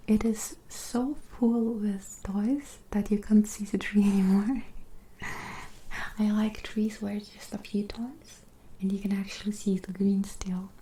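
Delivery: hushed, half-whispered chat. Real, not acted. Chatting to viewers about toys on a tree, whispery. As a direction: talk in a gentle near-whisper. Soft whispery talk throughout.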